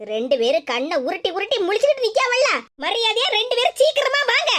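a stern mother catching the two of them out; scolding mother. Acted.

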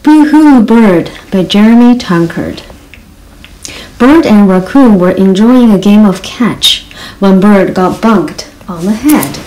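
lively storybook reading with voiced animals; reading to children. Reading a picture book to young children, animated storytelling. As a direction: read it like bedtime story time.

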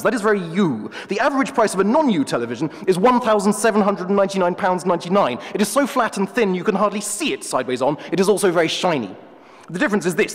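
a hint of a haughty professor; pompous wolf. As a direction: play the wolf as a self-important academic. The wolf lectures.

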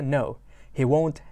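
stretched-out words; careful slow read. Shown as a demonstration. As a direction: read it slowly for the class. Teacher reads slowly.

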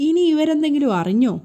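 inner thought. Acted. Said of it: "Manohar വിചാരിക്കുന്നുണ്ട്".

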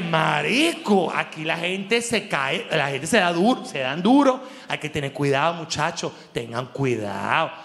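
mock earnest warning. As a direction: warn them gravely and slowly. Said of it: "Tú dices". (advertencia seria y lenta, lo dice en broma)

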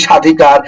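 স্বাধিকার begun with a plain "sha", no w or b; silent ba-phala. Shown as a demonstration. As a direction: say স্বাধিকার as "shadhikar". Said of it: "বফলার কোনো উচ্চারণ হচ্ছে না".

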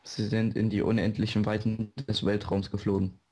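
bright robotic announcer voice; chipper text to speech voice. Pretend. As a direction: read it like a cheerful TTS bot. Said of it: "Sagt der mit der Roboterstimme".

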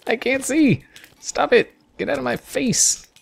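high, frantic panic; panicked yelling. Real, not acted. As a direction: yelp it out, cornered and scared. Swarmed by mobs, can't see.

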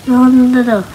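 rapid alarm at danger; panicked no. Real, not acted.

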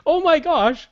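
high, loud "oh my gosh" squeal; mock-giddy burst of excitement; retold excitement. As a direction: replay the giddy rush of hope. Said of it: "I was getting all excited 'cause I'm like".

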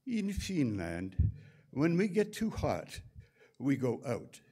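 slow, dry Finnish punchline, rising on hot; Pavel's deadpan reply. Retold or imitated. Pavel answering the Swiss technician, slow dry Finnish deadpan. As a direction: deliver it dry and slow as the topper. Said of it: "And Pavel said".

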